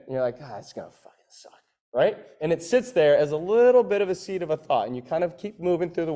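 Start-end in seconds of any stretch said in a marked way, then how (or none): 0.4-1.6 low, hushed mock dread; muttered dread. Coach voicing an athlete facing heavy lifts, muttering low. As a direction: grumble it low under your breath.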